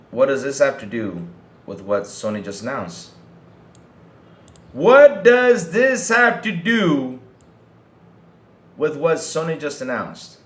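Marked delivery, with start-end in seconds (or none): 4.7-10.4 loud, high, drawn-out question, easing at the end; exasperated demand. Real, not acted. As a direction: hammer "What does this have to do" slowly and loudly, then drop back. Repeats question emphatically in exasperation.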